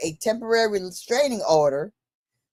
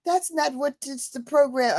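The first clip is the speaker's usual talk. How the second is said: a lightly put-on machine voice, a bit higher; phone AI voice; 5 semitones higher than usual. The phone AI refusing her request, mock assistant voice. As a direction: play the AI assistant, polite and a touch higher. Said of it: "talking to me in a British voice".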